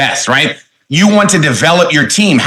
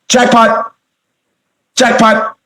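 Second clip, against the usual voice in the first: higher, cheering jackpot call; excited exclamation; 5 semitones higher, much slower than usual. Acted. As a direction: cry it out like a game-show win. Celebrating a great point.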